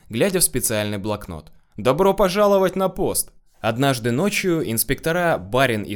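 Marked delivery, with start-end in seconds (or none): 1.7-3.3 high, hearty greeting; cheerful welcome. A narrator's reading. Bar owner welcoming the fresh inspectors, cheerful. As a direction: welcome them in, pitch lifted high. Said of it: "жизнерадостно отвечал хозяин".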